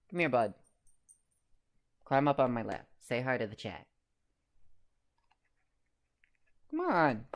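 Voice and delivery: high, loud coaxing pet voice. Real, not acted. Streamer calls his cat Felix onto his lap, high coaxing pet voice.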